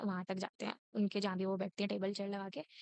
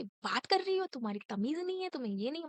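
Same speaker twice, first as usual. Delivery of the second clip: higher, mocking teacher scold; imitating scolding teacher; 4 semitones higher than usual. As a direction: mimic the coordinator's nagging. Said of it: "बोले, बोले कि".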